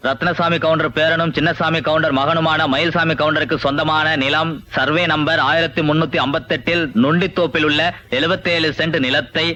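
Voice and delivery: measured official announcement read to the whole village; town crier proclamation. Acted. Crier announcing the land auction to the villagers, formal proclamation. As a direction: proclaim it like a crier after the drum. Drum-beat public proclamation.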